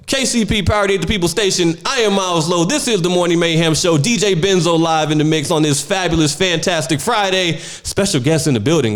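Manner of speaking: upbeat on-air DJ announcement; radio host intro. Acted. DJ introducing a special guest live on air. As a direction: hype it like a morning show host.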